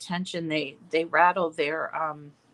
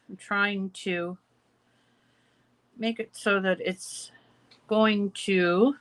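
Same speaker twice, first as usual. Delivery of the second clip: talking around a pin held in the lips; pin in mouth. Real, not acted. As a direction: speak with a pin clamped between your lips. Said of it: "sorry, I have a pin in my mouth".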